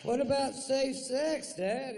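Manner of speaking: put-on high, loud teenage son; mock high teen voice; son's voice. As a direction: pipe up like a cheeky teen. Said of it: "son asks".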